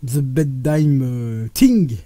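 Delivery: "The Bedtime Thing" in a thick French accent. Real, not acted. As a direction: read the English title with a heavy French accent. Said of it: "pour la, l'accent, ... à couper au couteau".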